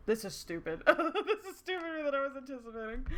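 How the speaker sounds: giggling through the words; real amusement. Real, not acted. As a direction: let laughter break into the remark. Laughing at own silly pun.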